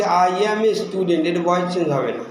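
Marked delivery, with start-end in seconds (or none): 0.0-1.2 slow repeat. Shown as a demonstration. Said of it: "যেমন আবার বলছি".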